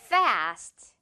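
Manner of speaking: "fast" with F blown through the teeth; F sound. Shown as a demonstration. Teacher models fast in a sample sentence. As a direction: bite the lip and blow "fast". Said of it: "토끼 이빨 발음 기억하면서".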